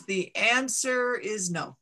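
slow, measured voice of a mountain; a giant stone mountain answering slowly; booming mountain voice. Acted. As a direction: let the mountain pronounce its verdict slowly.

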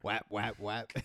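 repeated slapping noise; slap sound. Retold or imitated. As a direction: mimic the smacking rhythm. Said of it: "What's the beating noise?".

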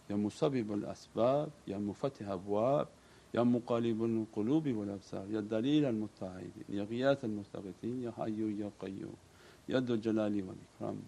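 soft, rhythmic chant of divine names; quiet prayerful invocation; recited dua. Acted. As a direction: intone the litany softly, devoutly. Recited supplication litany.

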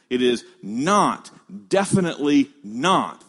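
weight both NOTs and DEFINITELY; emphatic negative. Shown as a demonstration. Preacher explaining the Greek double negative, stressing "not" and "definitely". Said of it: "it makes an emphatic negative".

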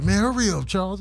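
hiker voice. Retold or imitated. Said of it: "I did the voiceover in terms of the guys".

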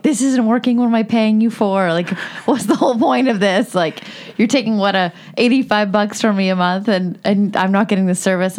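mildly heated complaint, pitched a little up; retold rage. Customer calling T-Mobile about bad service, mock-angry retelling. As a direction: replay an exasperated customer rant, half-laughing partway. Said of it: "like, in pure rage".

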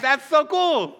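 high, loud gushing; hammed-up admiration. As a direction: gush like an impressed fan. Acts out Spanish speaker's admiring reaction.

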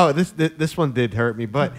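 struggling to talk through suppressed laughter; choked up with laughter. Real, not acted. Teased by co-host for tearing up at the story, choked up with laughter. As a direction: get the words out between real laughs. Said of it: "can't even talk".

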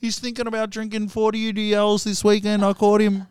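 high voice cracking up with laughter; giggly, high-pitched pretend phone call; laughing mock caller. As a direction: act out the phone caller while failing not to laugh. Acts out caller in cop movie.

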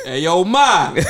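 lightly hammed-up street catcall; mock New York catcaller.

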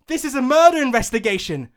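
stern rebuke. Acted. Drow scolding Maiden, stern rebuke. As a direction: scold her firmly.

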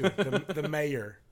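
slow, drawn-out Mayor as may-er; slow Midwestern Mayor. Shown as a demonstration. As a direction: stretch out the Mayor slowly. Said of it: "talk like this".

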